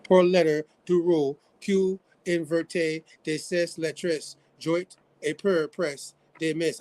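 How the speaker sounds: reading French aloud, slowly and carefully; careful French read-through, halting; reading a foreign language. Shown as a demonstration. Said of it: "I'm trying to read it in French".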